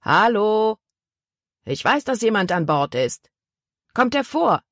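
demanding call to whoever hides on board; calling again. A narrator's reading. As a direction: hail the boat again, pushing harder. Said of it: "rief der Mann noch einmal".

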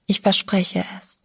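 hushed, near-whispered yielding; quiet promise. A narrator's reading. Sabine gives in to the narrator's demand, speaking quietly. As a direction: let the promise come out almost voiceless. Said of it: "sagte sie leise".

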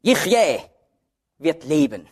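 "Yichyeh" set apart by pauses; accent on Yichyeh. Shown as a demonstration. Preacher naming the accented word in Hebrews, isolated stress on "Yichyeh". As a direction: give "Yichyeh" its own weight, pause, then translate. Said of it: "jedes Mal wird der Akzent auf ein anderes Wort gelegt".

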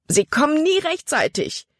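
high, frightened cry of despair; terrified. Acted. Caleb watching the boat row toward Jordan, terrified cry. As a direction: let the fear break through. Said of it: "Calebs Stimme war schreckerfüllt".

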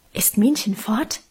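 hushed, secretive whisper; whispered question so the big sister won't hear. Acted. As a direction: whisper it like a conspirator. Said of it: "raunte sie geheimnisvoll".

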